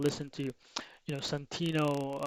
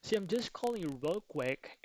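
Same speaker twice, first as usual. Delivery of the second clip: energetic quick opener; 4 semitones higher than usual. Shown as a demonstration. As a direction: lift the pitch and keep it breezy. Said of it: "you gotta have that energy right there".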